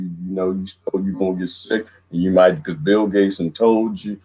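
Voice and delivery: lightly voiced sincere presenter; mock earnest speaker. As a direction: play a naive conspiracy believer. Mock conspiracy speech intro.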